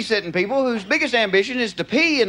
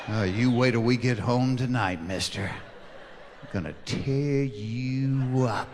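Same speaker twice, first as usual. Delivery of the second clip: low, slow, quiet menace; mock threat; 10 semitones lower, 8 dB quieter, slower than usual. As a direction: threaten under your breath, drawing it out. Acted threat for later at home.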